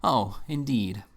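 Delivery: slow, drawn-out mincing lady's voice; a mincing spinster's slow, covered letdown; hiding disappointment. A narrator's reading. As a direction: stretch it out to mask disappointment. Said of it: "to conceal her disappointment".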